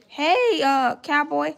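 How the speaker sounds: high, bright hello to a viewer; light up for the gift; excited greeting. Real, not acted. To a viewer who sent a gift, excited high greeting.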